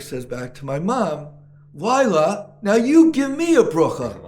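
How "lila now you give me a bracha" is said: high, loud teasing request, laughing through it; playful laughing rabbi. Retold or imitated. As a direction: tease her back with a laugh, pitched up. Rabbi teasingly asks for blessing.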